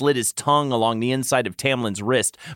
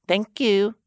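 higher, lightly sighed thanks; 8 semitones higher than usual. A narrator's reading. Tamlin thanks the lover, sighing. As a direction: sigh it contentedly. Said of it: "Tamlin sighed".

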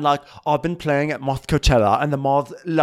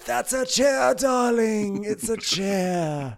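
diva impression; 7 semitones higher, much slower than usual. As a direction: talk down like a grand lady. Mocking Lisa's diva voice.

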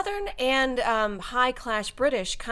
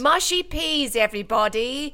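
higher mock British; British accent; 4 semitones higher than usual. Guest copies the Englishman, playful British accent. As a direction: announce it in fake British. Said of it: "when I do British accent".

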